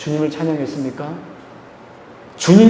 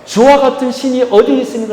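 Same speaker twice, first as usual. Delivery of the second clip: higher-pitched cry of praise; exclaimed praise; 6 semitones higher than usual. Retold or imitated. Preacher echoing the prophet praising God, exclaimed praise. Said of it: "라고 찬양했던 것처럼".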